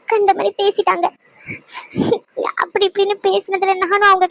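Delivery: halting, tearful confession; upset, pausing between phrases. Acted. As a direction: explain in short pieces while holding back crying. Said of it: "சரி, அழுகாதீங்க".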